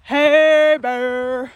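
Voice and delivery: loud call to warn a bear; scaring off a bear. Real, not acted. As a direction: shout it out into the woods. Calling out to scare bear.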